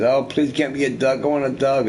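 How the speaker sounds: a hint of a kid begging. Kid asks parents for a dog, lightly acted pleading. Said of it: "everybody wants a dog as a kid".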